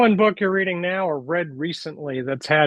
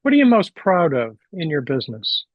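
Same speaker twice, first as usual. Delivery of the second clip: clearer repeat. Real, not acted. Repeats question after listener missed it.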